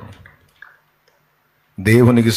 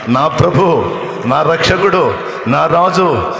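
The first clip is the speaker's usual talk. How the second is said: louder, rising preacher's cry; fervent preaching; 5 semitones higher, 4 dB louder than usual. Acted. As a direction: build it up like a revival sermon. Preaching climax, Mary's devotion. (ఉద్వేగంతో బిగ్గరగా ప్రసంగం)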